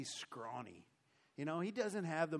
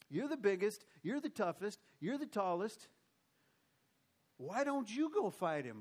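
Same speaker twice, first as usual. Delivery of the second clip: higher, pointed mock appeal; urging the leader; 4 semitones higher than usual. Everyone looking to King Saul to fight, mildly goading. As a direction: press him with each superlative.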